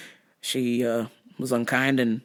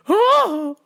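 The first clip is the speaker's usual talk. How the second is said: startled Betty White oh; 13 semitones higher, 4 dB louder than usual. Retold or imitated. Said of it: "turning around going".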